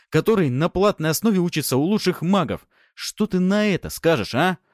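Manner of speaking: menacing mentor demanding an answer; gruff Fyodor voice. A narrator's reading. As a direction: press the boy hard.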